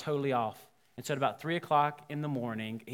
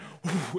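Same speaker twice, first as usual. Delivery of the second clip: imitated puff of breath; short whoosh of blown air; blowing out candles; 2 semitones higher than usual. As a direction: blow as if at birthday candles. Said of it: "and blows out the candles".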